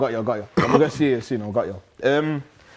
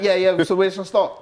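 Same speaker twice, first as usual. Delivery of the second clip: mock casual latecomer; 5 semitones higher than usual. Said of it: "man come back with toothbrushes, like".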